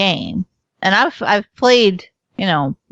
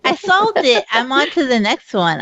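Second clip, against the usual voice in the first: thrilled, high and bright; bursting with pride at solving it; excited; 5 semitones higher than usual. Real, not acted. Solving the demo puzzle.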